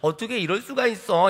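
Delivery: pitiful puppy-like whine, mildly acted; whining. Balak pleading with Balaam, mock pitiful whine. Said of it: "불쌍한 강아지 같은 눈으로".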